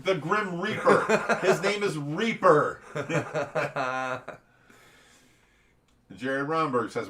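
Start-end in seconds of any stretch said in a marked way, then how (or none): 0.0-4.2 laughing. Real, not acted. Laughing while explaining the name.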